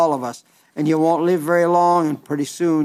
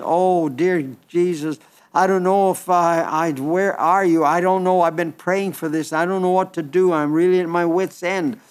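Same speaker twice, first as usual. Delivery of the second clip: anguished prayer. Retold or imitated. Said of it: "I've thought sometimes".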